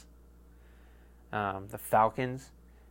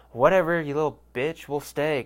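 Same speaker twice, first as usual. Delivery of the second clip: annoyed dad; 3 semitones higher than usual. Retold or imitated. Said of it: "as a good father does".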